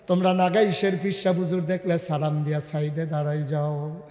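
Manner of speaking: melodic preaching. Real, not acted. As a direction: chant the sermon to the crowd. Melodic sermon delivery.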